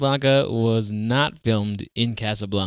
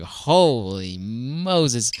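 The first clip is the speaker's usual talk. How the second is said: awed exclamation; much slower than usual. Pretend. Awed reaction to the scene.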